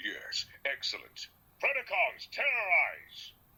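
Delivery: slow, drawn-out, high-pitched robot voice. Showing a run of past roles in one minute: Megatron voice. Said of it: "There's Megatron".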